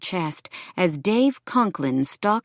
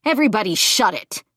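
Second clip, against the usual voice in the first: raised, higher holler at a crowd; 5 semitones higher, 4 dB louder than usual. A narrator's reading. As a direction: holler to silence everybody. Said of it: "Dave hollered".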